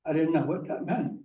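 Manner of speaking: usual speaking voice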